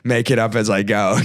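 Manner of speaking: a hint of a low-voiced diva actor; Jack Nicholson. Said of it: "He's like".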